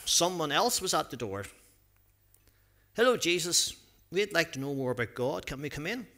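lively storybook reading with acted voices; reading a story to children. A narrator's reading. Pastor reading a Bible story to children, lively storytelling. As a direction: read it out like a picture book for the kids.

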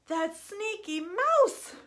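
slow, rising storytime announcement; playful drawn-out suspense; dramatic reveal. Pretend. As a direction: draw it out, lifting high on the last word. Dramatic reveal of the next animal.

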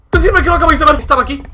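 loud, high, shaken-up insistence; panicked shout to the audience; alarmed pleading. Real, not acted. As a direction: plead with the viewers in a fright. Saw something in the game.

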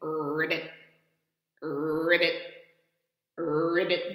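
a light croaky ribbit; frog ribbit. Pretend. The frog croaking at the ladybug, lightly voiced. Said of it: "while he says".

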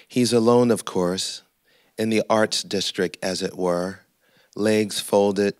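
measured, deliberate poem recitation; poetry reading. Acted. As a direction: read the poem aloud in weighted phrases, pausing between images. Reads own poem to audience.

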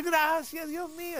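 high acted cry of relief; grateful cry. Sailor thanking God for an answer, acted grateful cry.

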